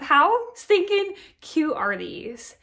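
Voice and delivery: high, loud and slow, squealing over cute dishes; gushing. Real, not acted. Vlogger showing her butter pats, gushing excitedly. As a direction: coo over it like it's the cutest thing ever.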